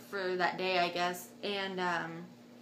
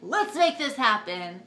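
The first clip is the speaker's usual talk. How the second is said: louder, slower mock rallying cry; retold determination; 2 semitones higher, 6 dB louder, slower than usual. Woman in labor seeing a tiny window, mock determination. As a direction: push it out loud and deliberate.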